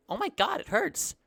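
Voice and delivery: high, frightened yelp as it dawns on him; a small child suddenly noticing the burn; panicked pain. Acted. Kobold child realises his burn hurts, panicked and high.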